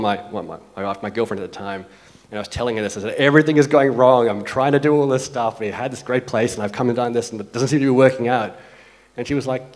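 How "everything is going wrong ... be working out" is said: venting loudly, slightly raised pitch; venting dejection. Retold or imitated. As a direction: pour out your troubles on the phone, louder at the start. Upset call to girlfriend, retold.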